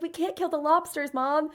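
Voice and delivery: put-on a touch of a child's tearful plea; mock tearful boy. Little boy begging Mom for the lobsters, mock tearful. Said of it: "the little boy starts crying".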